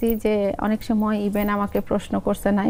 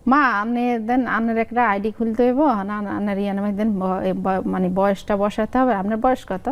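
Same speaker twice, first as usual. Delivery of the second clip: everyday Lakshmipur regional speech; Lakshmipur dialect. Shown as a demonstration. Son asking mother's age for an ID, in Lakshmipur dialect. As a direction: say it in homely Lakshmipur Bengali dialect. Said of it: "আমি আঞ্চলিক ভাষায় বলি".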